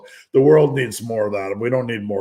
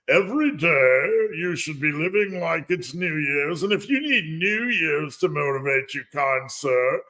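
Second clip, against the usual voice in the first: higher, prissy mock-polite influencer voice; mocking a preachy influencer; 4 semitones higher than usual. Parodying preachy influencers to his live stream viewers, in a higher mock-polite voice. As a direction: lightly parody a smug guru. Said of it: "like those influencer knobs that just get on like".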